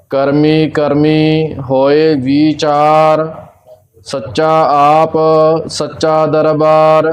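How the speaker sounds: measured Gurbani recitation on a level tone; even, unhurried devotional reading; scripture recitation. Real, not acted. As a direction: recite line by line with drawn-out endings.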